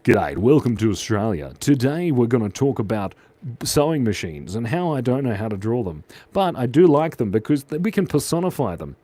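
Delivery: Australian accent, welcoming the viewers. Shown as a demonstration. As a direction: put on an Australian presenter's accent. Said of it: "I can do an Australian accent".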